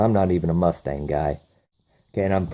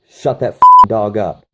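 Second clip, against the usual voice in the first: louder, harsh command; mock gang leader yelling; barked order; 9 dB louder than usual. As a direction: bark it at your men.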